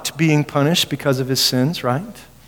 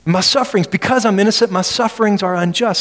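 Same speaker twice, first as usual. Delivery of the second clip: higher, pleading insistence; protesting Job; 5 semitones higher than usual. Retold or imitated. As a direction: protest your innocence. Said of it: "he's innocent".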